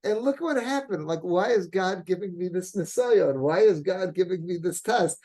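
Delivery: rising to a high, loud cry of despair; a man crying out why me, building to a shout; anguished outcry. Retold or imitated. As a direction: plead with God, voice climbing to a shout. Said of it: "he's screaming".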